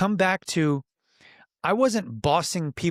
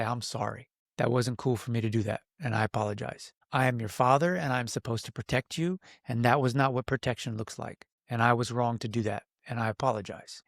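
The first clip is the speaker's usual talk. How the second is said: sincere apology; 3 semitones lower, 5 dB quieter than usual. Retold or imitated. Father apologizing to son.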